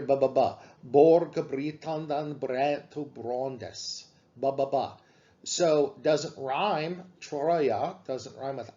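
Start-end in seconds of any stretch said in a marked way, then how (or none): 0.0-5.0 "ba, ba, ba" with slow "Borg Britandan" stressing each B; alliteration shown. Shown as a demonstration. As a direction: beat out the B onsets of "Borg" and "Britandan". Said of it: "next line you hear".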